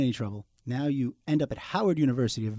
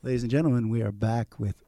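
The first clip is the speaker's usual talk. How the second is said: dropping voice deep; 3 semitones lower, 4 dB quieter than usual. Acted. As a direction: drop into a low late-night radio voice. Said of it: "Do I sound deep?".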